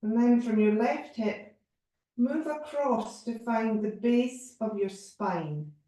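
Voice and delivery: spacious meditation delivery with long pauses; measured yoga relaxation voice; guided body scan. Real, not acted. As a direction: guide each breath without hurry.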